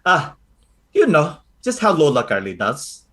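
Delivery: lightly voiced grandmother brushing it off sweetly; a hint of a sly old lola apologizing; Lola Carly. Lola Carly excusing her glowing eyes, lightly voiced. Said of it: "And she goes".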